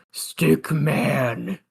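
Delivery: sleepy mumble; mumbling. Pretend. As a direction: mumble it half asleep. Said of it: "he's mumbling".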